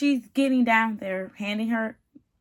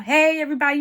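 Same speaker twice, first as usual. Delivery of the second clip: louder, higher upbeat greeting; high energy; 4 semitones higher, 5 dB louder, faster than usual. Retold or imitated. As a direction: imitate an eager groom hailing the crowd. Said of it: "he has great energy".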